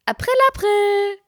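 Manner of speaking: high, slow sing-song April April; mock teasing sister, high and slow. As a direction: drag it out like a gotcha. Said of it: "Und dann hat sie gesagt".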